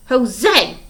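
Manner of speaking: put-on high, loud baby shriek. A narrator's reading. Baby Sunny shrieking in protest at Stefano, loud and high. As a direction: squeal it out in protest. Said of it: "Sonny shrieked".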